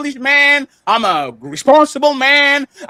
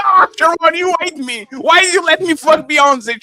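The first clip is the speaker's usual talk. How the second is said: higher-pitched, put-on complaint; mock resentment; 3 semitones higher than usual. Imagining blaming Sharon for a singer, mock resentful wail. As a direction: play up the wounded reproach. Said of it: "I will resent Sharon".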